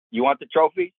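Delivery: high mock-stern question; high pointed question from Tina; wife on the phone. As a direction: play her demanding it. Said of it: "first words out of her mouth".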